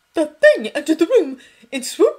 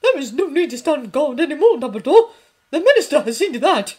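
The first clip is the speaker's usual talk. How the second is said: much higher, much louder furious woman; trembling fury; 10 semitones higher, 13 dB louder than usual. A narrator's reading. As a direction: shake with rage as you shout. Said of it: "trembling with fury".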